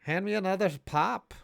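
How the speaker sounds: lightly hammed-up Minnesota voice, cheery; Midwest accent. Host imitating a Wisconsin fan at the game, light Midwest accent. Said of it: "That's my Midwest impression".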